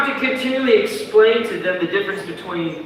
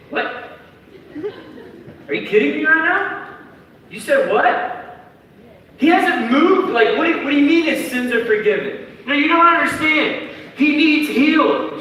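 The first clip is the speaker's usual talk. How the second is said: incredulous friend; 9 semitones higher than usual. Retold or imitated. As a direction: protest in shock. Friends indignant at Jesus.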